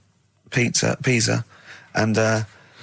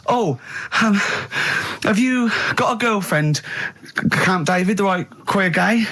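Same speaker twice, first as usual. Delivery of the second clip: raised, sing-song question; higher sketch voice with a rising question; sketch character; 8 semitones higher than usual. Acted. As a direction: ask like a nosy comic caller. Comic sketch dialogue.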